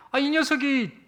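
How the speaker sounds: the father's anger rising again; irritated father. Retold or imitated. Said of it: "화가 또 나려고 했다고".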